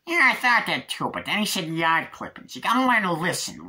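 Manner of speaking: high, loud put-on chief's voice; police chief. Police chief schooling his officer at the lake, high emphatic voice. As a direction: explain it high and emphatic, in character. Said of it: "Chief, I think there was".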